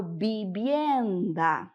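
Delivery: "vivienda" with both Vs as B; Spanish "vivienda", B sound for each V. Shown as a demonstration. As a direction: say "vivienda" like "bibienda". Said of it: "o V e o B possuem o mesmo som".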